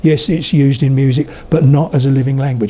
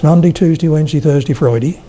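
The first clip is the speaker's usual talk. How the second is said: Suffolk weekdays ending in "dee"; first step of a widening Suffolk mouth; Suffolk, mouth starting narrow. Shown as a demonstration. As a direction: narrow Suffolk vowels, just starting to open. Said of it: "with my mouth getting wider and wider and wider".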